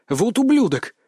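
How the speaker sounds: high cursing outburst; exclamation. A narrator's reading. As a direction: spit out the curse. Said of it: "мысленно воскликнул я".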